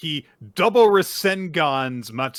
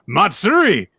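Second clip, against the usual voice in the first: loud, high call of her name; mock urgent shout of a name; 7 semitones higher, 7 dB louder than usual. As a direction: call out to her across the field. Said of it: "he shouts".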